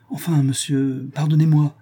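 a maid crying out for forgiveness. Acted. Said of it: "s'écrie Thérésine qui fond en larmes".

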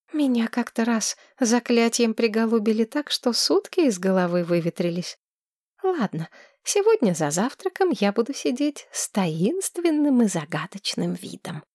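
put-on high, breathless girl gushing in love; dreamy young woman. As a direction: swoon over him like a smitten girl. Tamira voice again.

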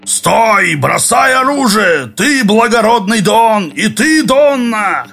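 high, slow mock-monster bellow; inhuman roar. A narrator's reading. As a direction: bark the ambush order like a forest beast. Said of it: "Хриплый голос ... проревел".

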